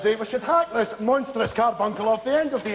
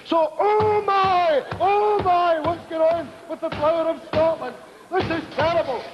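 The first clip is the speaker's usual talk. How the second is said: mock dismay; 5 semitones higher than usual. Tour guide dismayed at battlefield model.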